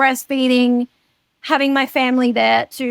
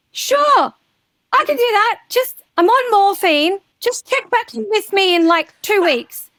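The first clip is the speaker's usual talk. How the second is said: drugged-up self; 9 semitones higher than usual. Retold or imitated. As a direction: sound floaty and out of it on morphine. Quoting herself on morphine post-op.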